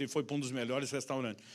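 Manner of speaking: normal talking voice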